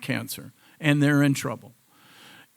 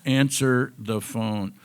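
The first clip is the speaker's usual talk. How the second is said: firm order; 5 dB louder, slower than usual. Retold or imitated. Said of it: "She goes".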